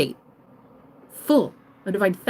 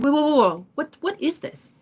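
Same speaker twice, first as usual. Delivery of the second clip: higher-pitched double take; alarmed bystander; 6 semitones higher than usual. Acted. Another shopper arriving at the fight, in a startled voice. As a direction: break in with startled whoas. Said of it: "This guy's like".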